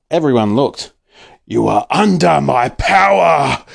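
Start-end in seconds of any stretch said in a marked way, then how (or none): 1.5-3.6 slow, drawn-out villain intoning; hypnotist villain. Acted. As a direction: lay on the spooky hypnotist. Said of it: "Doctor Dirt roared".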